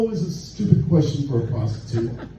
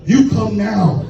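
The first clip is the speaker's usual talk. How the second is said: slow, higher mock scolding command; a stern masseuse's imitated command, slow and raised; louder scolding; 5 semitones higher, slower than usual. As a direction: scold him like you mean it. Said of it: "she says it louder and with more conviction and scolding me".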